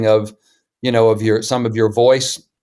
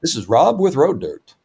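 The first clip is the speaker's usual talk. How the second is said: put-on old radio voice; 3 semitones higher than usual. Shown as a demonstration. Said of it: "I get to use my old radio voice again".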